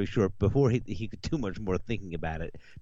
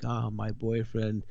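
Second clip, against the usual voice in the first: put-on crying girl; 3 semitones higher, slower than usual. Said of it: "she's crying and stuff like that".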